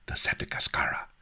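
fast, breathless whispered question; stunned whisper. Acted. Sheba hears the ship name, whispered shock.

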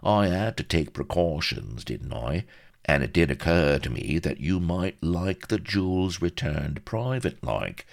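wheedling fixer. Acted. Vladimir explaining his precautions to Pepys, slyly confidential. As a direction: sidle up to the awkward point.

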